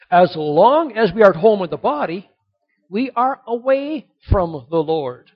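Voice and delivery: loud, ringing scripture reading; preaching scripture. Acted. Preacher reading the verse aloud to his congregation, loud and ringing. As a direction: proclaim the verse to the whole church.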